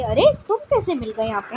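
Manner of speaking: lightly played astonished question; mock surprise with a swooping pitch; acted surprise. Shown as a demonstration. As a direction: demonstrate surprise at an unexpected meeting. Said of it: "आश्चर्य की बात हो रही है".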